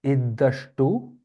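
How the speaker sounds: very slow, syllable-separated teaching; staccato. Shown as a demonstration. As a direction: break it into slow clear syllables. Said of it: "give it to me syllable by syllable".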